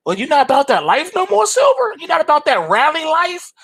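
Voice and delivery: high-pitched disbelieving tease; teasing disbelief. Pretend. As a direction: needle him like you can't believe it. Teasing silver in dialogue.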